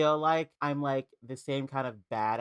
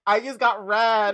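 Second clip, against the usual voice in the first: laughing; 7 semitones higher, 9 dB louder, slower than usual. Real, not acted. Repeating the roast, laughing.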